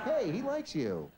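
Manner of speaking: laughing excuse. Acted. Owner excusing humping dog.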